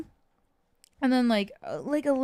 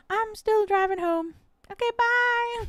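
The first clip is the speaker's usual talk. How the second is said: high, airy imitation of mom; mock her oblivious, chirpy sign-off; carefree mom; 10 semitones higher than usual. Mom hanging up on worried daughter, carefree.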